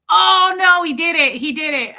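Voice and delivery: high loud groan of dismay fading down; horrified oh no. Retold or imitated. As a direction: cringe as dad says it. Dad said the rude thing.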